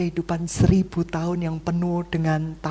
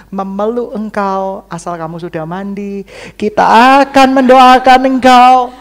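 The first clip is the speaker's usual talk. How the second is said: mock tender reconciler; 6 dB louder than usual. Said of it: "Kita berkata".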